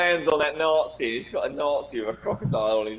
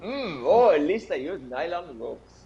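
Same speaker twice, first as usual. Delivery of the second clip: put-on Apu accent again; slower than usual. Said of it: "my terrible Apu".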